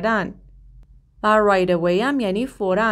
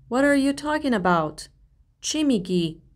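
slow, higher disbelieving question; surprised; 4 semitones higher than usual. Shown as a demonstration. Teacher acting out someone stunned by unexpected news. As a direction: sound caught off guard by the news. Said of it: "یکی یه چیزی بهتون میگه که خیلی تعجب".

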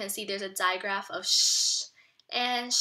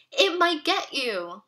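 spooky warning; 6 semitones higher, 8 dB louder, slower than usual. Acted. Scared boy warns sister.

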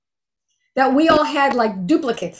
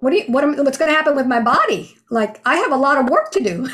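upset; 3 semitones higher, much faster than usual. Retold or imitated. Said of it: "I was getting really upset".

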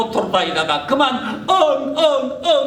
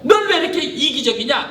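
angry outburst; 3 semitones higher, faster than usual. Pretend. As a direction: snap at the child greedily. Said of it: "이렇게 화를 냈다면".

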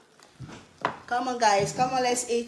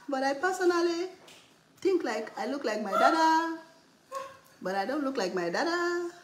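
teasing imitation of the daughter's vlog voice, lightly pitched up; mocking daughter; 3 semitones higher than usual. Mom mimics her daughter's vlog intro, teasing with laughs. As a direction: mimic her chatter with laughs breaking through. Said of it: "Are you mocking me?".

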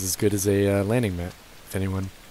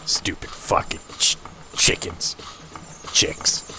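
whisper; 5 semitones lower, slower than usual. Acted. Grumbling at cute chicks.

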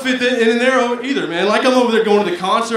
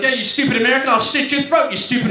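mock British yelling, slightly raised; rough comic attempt at a British accent; 3 semitones higher, faster than usual. British gamer threatening an American online, mock British accent. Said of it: "that's my British accent".

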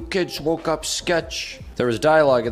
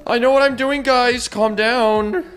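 mock confident; 10 semitones higher, 5 dB louder than usual. Mock-confident while lost.

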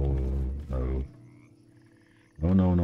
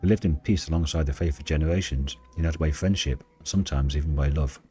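story narration. Acted. Reads game story aloud.

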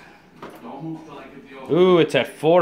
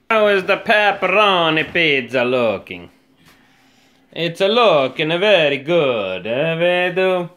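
light put-on Italian accent; a hammed-up Italian chef, lightly; mock Italian accent; 2 semitones higher, 4 dB louder than usual. Showing off the pizza in a mild mock Italian accent. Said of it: "with my Italian accent".

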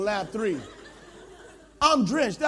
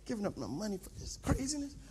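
muttered under the breath, much softer; inner monologue; 6 semitones lower, 11 dB quieter, much faster than usual. Acted. Pastor grumbling in his head about the cost, muttered low and soft. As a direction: grumble to yourself, barely aloud. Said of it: "I'm in my head. I'm like".

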